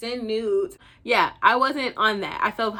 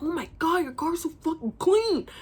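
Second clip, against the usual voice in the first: higher-pitched mock amazement; imitated gushing; 6 semitones higher than usual. Imitating her date admiring the clean car, gushing.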